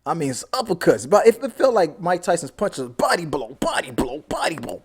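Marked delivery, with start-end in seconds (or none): 2.9-4.8 whispered. Retold or imitated. Acting out boxing punches.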